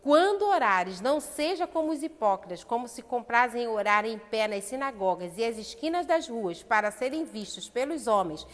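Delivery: loud, forceful reading of Jesus' words; preached scripture. Acted. Preacher quoting Christ to the church, loud and forceful. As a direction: proclaim it to the congregation with force. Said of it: "Cristo falando assim".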